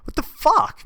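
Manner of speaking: loud high incredulous protest; loud disbelief. Real, not acted. Reacting to the coworker's plan, loud and incredulous. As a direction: shout him down in disbelief.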